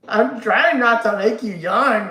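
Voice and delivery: slow, loud callback line; slow deliberate quote. Shown as a demonstration. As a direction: drag it out as a reference.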